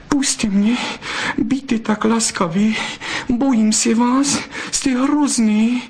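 frightened pleading. A narrator's reading. Frightened vixen begging Zlatohřbítek to let her go, high fearful plea. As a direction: beg him, scared of him. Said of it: "zaprosila Bystrouška".

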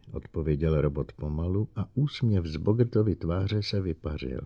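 ordinary delivery, nothing marked

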